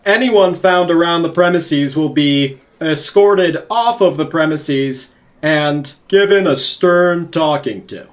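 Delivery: loud stern proclamation; stern sheriff. Acted. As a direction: lay down the law to the crowd. Sheriff addresses crowd.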